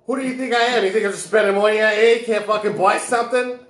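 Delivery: put-on rising indignation in a Jewish woman accent. Haggling over a car, Jewish woman accent. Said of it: "we got Jewish woman".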